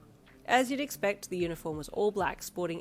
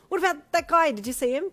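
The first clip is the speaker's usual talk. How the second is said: higher, louder eager question; 10 semitones higher, 10 dB louder than usual. A narrator's reading. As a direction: press him eagerly.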